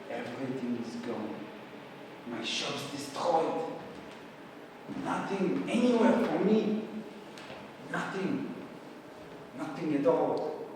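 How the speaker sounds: subdued, halting disbelief at the loss; desolate. Acted. Louis finds his shop destroyed, acted desolation. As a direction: let it sink in, with long pauses.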